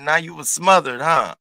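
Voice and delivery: high, loud, knowing mock question; teasing the dog. Owner to dog back from being smothered, teasing. Retold talk to her dog.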